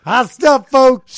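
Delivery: high, loud mock call; imitating Freddie. Friend echoing the busboy's call, loud and high. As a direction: shout it like a cheery busboy. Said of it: "you could hear his voice".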